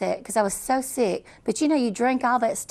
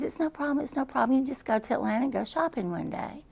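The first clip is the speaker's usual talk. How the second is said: soothing doctor; 5 semitones higher, 4 dB quieter than usual. Retold or imitated. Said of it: "And he says".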